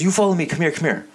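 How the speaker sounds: high-pitched Asian accent imitation of the shop lady. Comic imitation of the dollar store lady, Asian accent. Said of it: "I don't wanna do the Asian accent".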